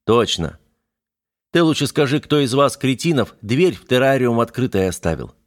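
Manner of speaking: a gruff boss scolding the lads; voiced mechanic. Механик отчитывает парней за открытый террариум, ворчливо. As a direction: scold them like a fed-up foreman.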